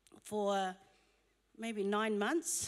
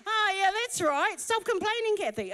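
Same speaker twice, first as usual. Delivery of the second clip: self-reminder; 7 semitones higher, 4 dB louder than usual. Retold or imitated. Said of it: "I have to remind myself".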